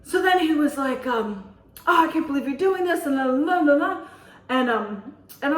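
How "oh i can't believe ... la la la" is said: mock complaining. Retold scolding by the man.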